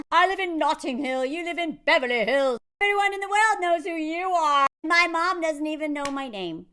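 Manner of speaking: loud, hammed-up lament; mock-dramatic outburst; acted protest. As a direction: declaim the mismatch at full voice. Acting out the film's argument.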